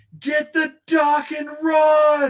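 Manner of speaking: slow, very high yell, stretched out. Playing a character fleeing sparking robot, shouting to grab the dock: shouting in character. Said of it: "I'll just start shouting".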